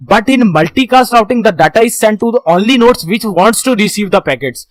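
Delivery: reads each English word very slowly; slow slide reading. Shown as a demonstration. Teacher reading the slide to students, very slow and deliberate. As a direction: dictate the slide line slowly to the class.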